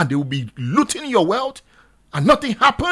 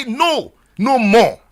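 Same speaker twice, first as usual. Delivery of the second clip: louder demo shout; much slower than usual. Shown as a demonstration. Radio host urging listeners, louder protest chant. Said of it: "Let it be louder".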